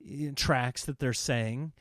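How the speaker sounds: searching aloud, baffled; confused question. Retold or imitated. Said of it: "we're going".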